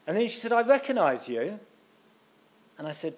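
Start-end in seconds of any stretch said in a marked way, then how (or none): 0.5-1.6 higher, louder imitation of a retired lady; old lady voice. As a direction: lightly mimic a chatty village lady.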